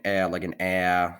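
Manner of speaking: exaggerated regional "a"; bleating short A. Shown as a demonstration. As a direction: say "a" as a pronounced, sheep-like vowel. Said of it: "kinda more pronounced, more like a sheep".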